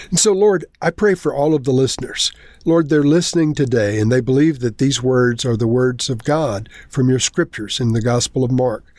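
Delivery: earnest spoken prayer to the Lord; sincere closing prayer. Real, not acted. Pastor prays for the listeners.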